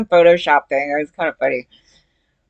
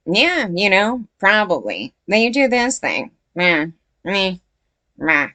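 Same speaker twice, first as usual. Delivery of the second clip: lightly mimicked bored guy; droning "meh, meh, meh" to mock his dullness; mocking Danny as dull. Mocking Danny's dull personality with a bored, droning voice. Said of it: "This guy's just like".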